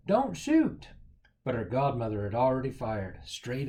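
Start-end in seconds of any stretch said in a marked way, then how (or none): 0.1-0.9 much higher panicked cry; yelling. A narrator's reading. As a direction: shout to stop the shot. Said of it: "Cindy yelled".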